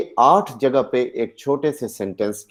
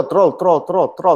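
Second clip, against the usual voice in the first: imitated peaks and drops; 6 semitones higher than usual. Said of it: "peak पे गया, फिर नीचे".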